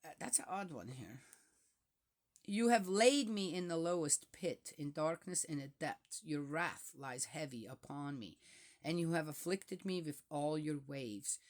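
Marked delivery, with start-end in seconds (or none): 2.4-11.4 steady, solemn psalm reading; scripture reading. Acted. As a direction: let each verse land gravely. Reads psalm aloud.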